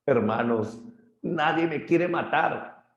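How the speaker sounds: grito agudo y lento en quiere; un gigante que pide ayuda subiendo el tono; Polifemo gritando. Acted. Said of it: "Polifemo grita". (Polifemo suplicando, quiere muy agudo)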